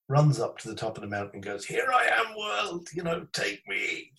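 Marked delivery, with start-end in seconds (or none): 1.6-4.1 high, drawn-out mock yell; retold mountaintop cry. Storyteller imitating friend alone on a mountain, high mock yell. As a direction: throw it high as if to the whole world.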